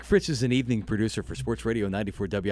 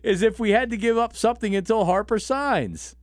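laughing quote; 10 semitones higher than usual. Retold or imitated. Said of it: "and I said".

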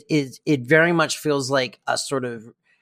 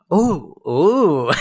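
high, louder mock "oh, ooh"; titillated oohs; 4 semitones higher, 4 dB louder than usual. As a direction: ogle something scandalous. Ogling the couple across street.

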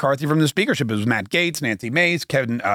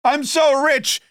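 much higher mock whine of a rich old man; hammed-up high Bernie impression; Bernie Sanders whining; 11 semitones higher than usual. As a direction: lampoon his fake despair.

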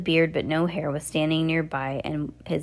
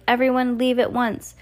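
calling out; 6 semitones higher than usual. A narrator's reading. Klaus warning the hallway.

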